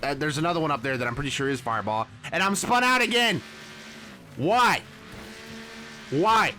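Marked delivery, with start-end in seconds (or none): 2.3-6.5 exasperated cry. Real, not acted. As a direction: wail at being spun out. Spun out yet again.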